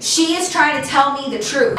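mildly heated retold telling-off; firm, indignant refusal, mildly acted; mad retort. Narrator retells telling off her friend's boyfriend, mildly mad. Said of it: "I started getting really mad".

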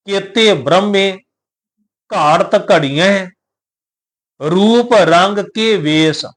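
slow, measured recitation of the verse; scripture recitation. Shown as a demonstration. Teacher reciting Gurbani to the sangat, slow and measured. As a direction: intone the line with care. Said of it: "ਸੋ ਬਚਨ ਨੇ".

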